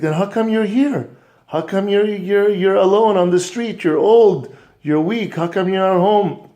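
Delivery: put-on a little boy who can't believe it; shocked boy. Little boy asking his grandfather, shocked.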